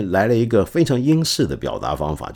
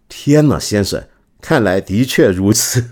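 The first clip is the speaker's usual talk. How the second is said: mock exclamation; 5 dB louder than usual. Translating Wellington's reply, loud mock exclamation. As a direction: toss it off in mock surprise. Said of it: "反应是".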